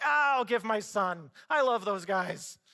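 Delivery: carried-away, gushing delivery, lightly voiced; mock gushing God. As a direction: play it as a swept-away romantic. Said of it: "he was like".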